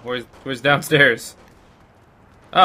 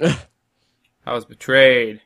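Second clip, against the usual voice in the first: mock drama; much slower than usual.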